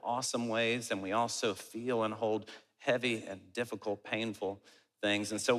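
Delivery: earnest, measured congregational prayer. Real, not acted.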